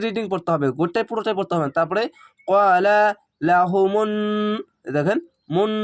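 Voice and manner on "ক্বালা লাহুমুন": ক্বালা লাহুমুন with a held nasal মুন; recitation with nasal ghunna. Shown as a demonstration. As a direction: hum the ন of লাহুমুন. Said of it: "এভাবে গুণা করে পড়বেন". (গুণা করে লাহুমুন)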